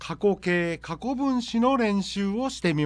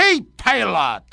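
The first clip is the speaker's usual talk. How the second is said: slow, louder menacing hijacker; 5 dB louder, much slower than usual. Acted. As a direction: bark the demands like a movie hijacker. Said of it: "ハイジャッカー。".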